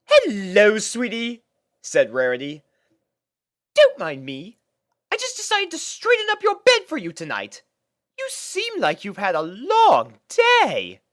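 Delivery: high, bright fussy big sister; Rarity's voice. Acted.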